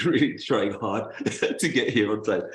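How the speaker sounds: laughing through the words. Real, not acted. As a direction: chuckle while explaining the rush. Laughing at own rush to arrive.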